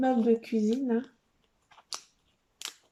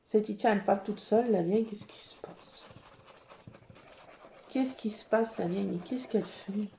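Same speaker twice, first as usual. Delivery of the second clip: cat's thoughts voiced; 3 semitones lower, 6 dB quieter than usual. Le patron pense, voix basse.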